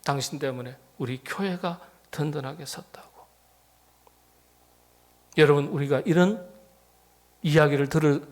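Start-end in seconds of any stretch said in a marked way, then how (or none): 0.0-3.3 soft breathy whisper of praise; voiceless whisper, almost confiding. Acted. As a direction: hush it like a secret compliment. Quoting praise in hushed voice.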